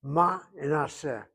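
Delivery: "ma" and "aseh" set apart; split into syllables. Shown as a demonstration. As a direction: break the word into ma, then a-seh. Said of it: "There are two syllables".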